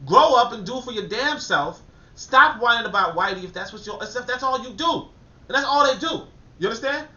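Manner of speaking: rising frustrated scold; heated rant. Real, not acted. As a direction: tell them off with force. Ranting at complainers.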